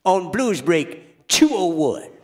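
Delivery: a hint of an old blues man announcing; Howlin' Blind Muddy Slim. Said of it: "doing the voice of Howlin' Blind Muddy Slim".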